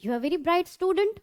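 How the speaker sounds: slow, carefully spaced English sentence; teacher reading an example sentence slowly. Shown as a demonstration. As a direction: read each word out slowly for the class. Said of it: "और एक bright क्या?".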